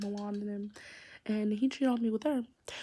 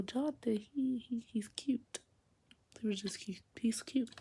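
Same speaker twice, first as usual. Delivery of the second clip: whispered crush; 2 semitones higher, 5 dB quieter than usual. Real, not acted. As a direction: whisper it like a shy confession. Gushing about cute boyfriend.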